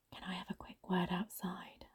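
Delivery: hushed, urgent whisper. Acted. Whispering to a colleague to step outside, in a hushed whisper. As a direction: whisper a discreet request. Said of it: "I whispered to her".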